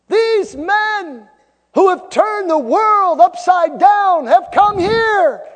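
high, full-force declamatory shout; accusing outcry. Acted. Accusers denouncing world-changing apostles to the city, loud outcry. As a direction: cry it out slowly to the whole crowd.

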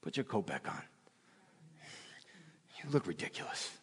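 soft, hushed scolding from the Father; quiet fatherly rebuke. Retold or imitated. The Father quietly telling him to dress, soft rebuke. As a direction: say it low and gently firm. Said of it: "I heard the father say".

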